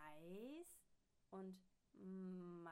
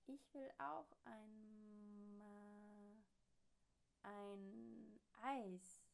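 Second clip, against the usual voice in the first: machine voice; much slower than usual. A narrator's reading. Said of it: "ertönt es von der Sprechmaschine".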